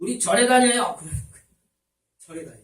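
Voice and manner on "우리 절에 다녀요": sudden high, loud yell. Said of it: "대뜸 소리를 지르는 거예요".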